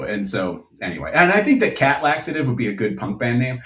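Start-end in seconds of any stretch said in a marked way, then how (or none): 1.1-3.6 fast and wired on coffee; caffeinated. Real, not acted. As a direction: rattle it off, buzzing from caffeine. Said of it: "the coffee has kicked in".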